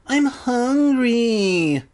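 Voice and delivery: high, drawn-out hungry whine; hammed-up complaining wail; mock whining. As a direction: whine pitifully, dragging it out. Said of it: "like a little bitch".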